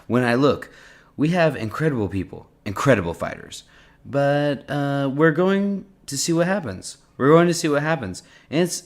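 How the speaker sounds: lightly imitated presidential cadence; Trump accent. President on fallen troops to reporters, in a light Trump accent. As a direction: give it a touch of the president's delivery. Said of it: "in a Trump accent?".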